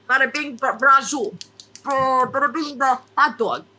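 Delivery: hammed-up Jersey catchphrases; Italian Jersey accent. Host trying to find the accent again, hammed-up Jersey. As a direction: fumble back into Italian Jersey with stock phrases. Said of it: "Do you want Italian Jersey?".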